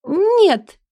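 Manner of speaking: high squeaky cry of no; squeak. Acted. Элли squeaks her denial at Jimmy, high. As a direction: squeak it out in protest. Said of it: "Пищит".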